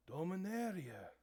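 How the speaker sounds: loud, high, stretched-out proclamation; grand Minotaur cry, rising then falling. Acted. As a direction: call it out from a towering beast. Towering Minotaur stands and proclaims.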